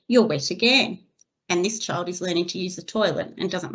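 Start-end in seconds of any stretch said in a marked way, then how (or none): 0.1-1.0 slightly louder, put-on condescending remark; mildly patronising educator voice. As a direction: talk down to a child, lightly acted. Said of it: "in a condescending tone saying".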